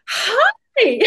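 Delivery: high, bright chirpy hello; cheery hi. Retold or imitated. Speaker greeting her rival on stage, chirpy and high. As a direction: greet her with bubbly delight.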